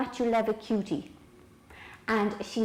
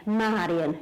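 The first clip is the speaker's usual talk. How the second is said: lightly imitated Lithuanian accent, lower pitch; Vilma; 4 semitones lower than usual. Naturopath instructing Marian, lightly imitated Lithuanian accent. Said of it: "because that's the way she talks".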